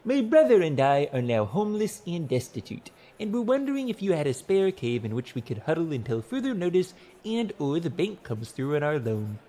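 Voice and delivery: high-pitched, politely pleading letter voice; earnest petitioner's letter. A narrator's reading. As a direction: read it as a humble formal petition. Narrator reads a petitioner's letter aloud.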